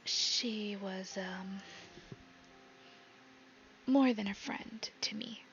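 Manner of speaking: half-whispered, halting confession; hushed secret, with long hesitations. Acted. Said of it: "she whispers".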